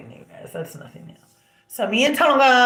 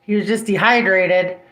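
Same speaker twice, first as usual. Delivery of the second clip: sarcastic retort; 2 semitones higher, 6 dB louder, slower than usual. Retold or imitated.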